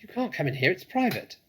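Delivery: high, loud snappy rat voice; snapping rat. A narrator's reading. Rat snaps at the intruders to go away. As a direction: snap it out like a cornered rat. Rat guarding his cellar.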